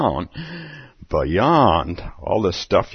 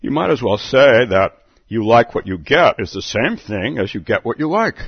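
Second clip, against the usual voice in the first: lightly louder Hare voice; March Hare correcting Alice; March Hare telling; 3 semitones higher, 4 dB louder than usual. Acted. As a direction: lecture her as the Hare. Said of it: "the March Hare tells her".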